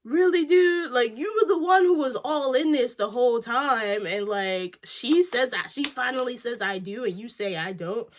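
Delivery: exasperated scolding of the groom; indignant disbelief. Retold or imitated. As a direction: demand an answer, outraged. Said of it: "I was like".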